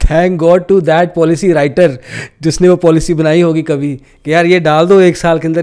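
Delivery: grateful, half laughing; laughing relief. Real, not acted.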